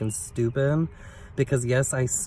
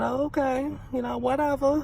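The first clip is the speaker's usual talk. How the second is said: much higher, airy sarcastic "whatever"; mock breezy brush-off. Retelling brushing off the old neighbor, high sarcastic shrug. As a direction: toss it off like you couldn't care less.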